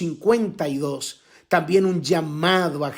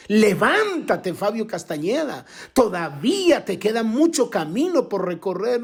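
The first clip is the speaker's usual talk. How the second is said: preached divine command; 5 semitones higher than usual. Acted. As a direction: call his name out from above. God's call retold, preached.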